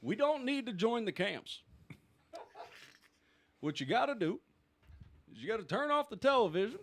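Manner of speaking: a hint of an Obama speech, half laughing; Obama impression. Asked to do the round as Obama, a light Obama impression. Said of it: "you have to do it as Obama".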